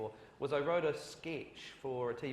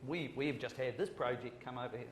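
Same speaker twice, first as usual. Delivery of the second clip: weak put-on Australian accent; a half-hearted Australian accent; bad Australian accent. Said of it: "that's a terrible Australian accent".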